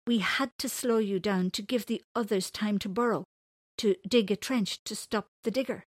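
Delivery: a hint of an eager young explainer; eager child. JC explains the plan to Winters, eager child.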